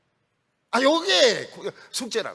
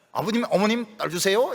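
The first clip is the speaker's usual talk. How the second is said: sweet-talking. Retold or imitated. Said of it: "이러면서 막 간 녹여가지고".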